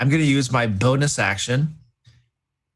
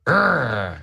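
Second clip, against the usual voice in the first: frustrated growl. Real, not acted. Player frustrated by charm limits.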